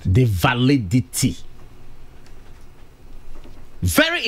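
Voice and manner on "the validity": VALIDITY drawn out slowly, syllable by syllable; slow right down on "validity" to drive it home; "validity" in slow, separate beats; emphasis on validity. Real, not acted. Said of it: "I'm emphasizing validity".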